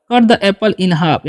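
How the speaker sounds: very slow, word by word; spelled-out dictation pace; slow model reading. Shown as a demonstration. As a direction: say each word slowly for the class to copy. Teacher models English sentence.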